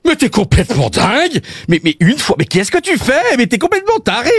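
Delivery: put-on Belgian accent. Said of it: "mon accent belge".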